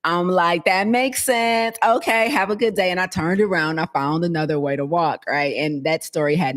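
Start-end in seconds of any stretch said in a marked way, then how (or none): 0.7-2.9 mock sweetly polite. Acting overly nice to guard.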